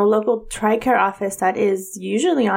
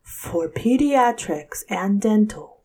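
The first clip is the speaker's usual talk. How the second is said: slow, monotone phone menu voice; monotone recording voice; slower than usual. Retold or imitated. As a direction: drone it like an automated menu. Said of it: "monotone like this".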